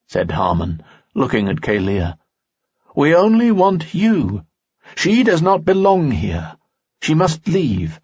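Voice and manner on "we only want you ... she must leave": lightly voiced, higher ghostly father, insistent; a hint of an eerie spirit claiming his son; the ghostly father rejects the girl, coldly insistent. A narrator's reading. Harmon's voice in story.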